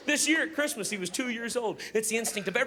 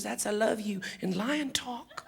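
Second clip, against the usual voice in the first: put-on little girl explaining; 2 semitones higher, 4 dB quieter, slower than usual. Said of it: "And she goes".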